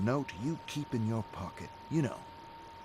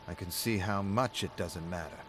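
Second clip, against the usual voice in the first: dry sarcasm. Acted. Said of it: "David sighs at the sarcasm".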